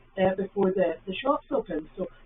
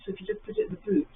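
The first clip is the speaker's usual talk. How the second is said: retold instruction; 11 semitones higher, faster than usual. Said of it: "I used to say to".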